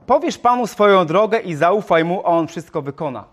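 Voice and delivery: verse read out loud and firm; reading the psalm aloud to the congregation; scripture reading. Shown as a demonstration. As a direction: proclaim the verse to the hall. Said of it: "Jak to wygląda?".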